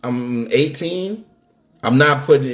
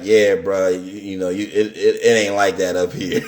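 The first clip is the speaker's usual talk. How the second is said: laughing advice; 5 semitones lower than usual. Retold or imitated. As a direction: lower voice, laughing through it. His OGs voiced, laugh.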